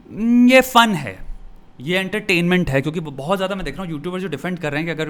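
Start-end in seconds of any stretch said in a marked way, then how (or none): 0.1-2.8 slow, much higher and louder, shrugging it off; drawn out like someone excusing it all as fun; mock casual defence. Voicing the viewer's inner part that calls abuse fun, mock casual.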